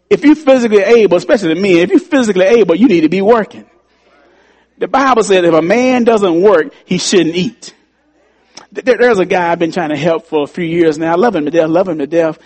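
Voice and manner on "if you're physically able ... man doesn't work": louder, higher, driving the point home; preaching exhortation. Real, not acted. Pastor urges the able men to work, loud exhortation. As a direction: press it on the men with force.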